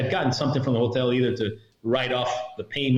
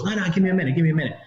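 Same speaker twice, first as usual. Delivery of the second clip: slightly raised, quick-off-the-tongue imitation; acted hurried stalling; 5 semitones higher, much faster than usual. Retelling the driver running out on them, acted hurried stalling. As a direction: put them off for a moment, pitched up. Acts man putting them off.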